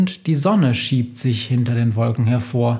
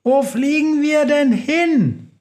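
high, slow yell against the wind; shouting over the storm; 13 semitones higher than usual. Acted. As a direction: call out over a roaring storm. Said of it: "Schreit Schussel gegen den Sturm".

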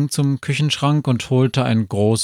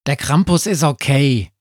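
higher, lively dog character; talking dog; 4 semitones higher than usual. A narrator's reading. Sami the dog tells Befana his opinion, talking dog. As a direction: give a verdict in a light, higher voice. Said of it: "sagt Sami".

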